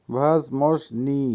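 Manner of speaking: ভাজমজনি drawn out slowly, ending on a rise; pronunciation demo. Shown as a demonstration. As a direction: sound out ভাজমজনি slowly for learners. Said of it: "উচ্চারণ হবে". (ধীরে টেনে ভাজমজনি উচ্চারণ)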